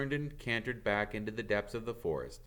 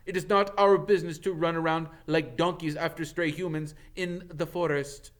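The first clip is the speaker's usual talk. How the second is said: loud, higher angry retort; angry centaur; 10 semitones higher, 8 dB louder than usual. Acted. Bane scorning Firenze for helping a human, angry and loud. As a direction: bark it out at the other centaur.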